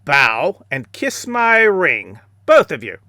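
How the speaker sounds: a lightly voiced self-important martial arts star; Steven Seagal impression. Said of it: "Sensei Steven Seagal".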